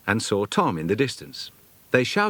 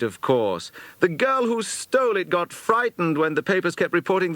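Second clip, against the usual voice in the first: put-on high boyish voice, quick and earnest; a lad relieved his sister is cleared; young boy explaining; 8 semitones higher than usual. A narrator's reading. Charles telling the household why the thief confessed, earnest boy.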